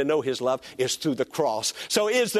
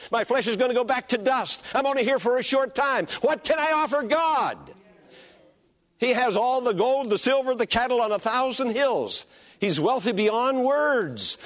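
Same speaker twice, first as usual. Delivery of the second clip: rising preaching shout; 6 semitones higher than usual. Real, not acted. Pastor building to climax.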